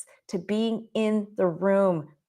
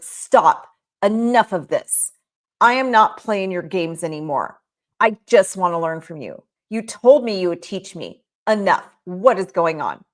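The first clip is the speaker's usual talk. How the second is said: loud, fed-up outburst; student breaking free and yelling at Aristotle; upset; 5 dB louder than usual. Retold or imitated. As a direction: snap at the master, louder. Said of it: "the man got really upset".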